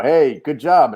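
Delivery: mock an admirer's hearty praise. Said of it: "everybody likes to go".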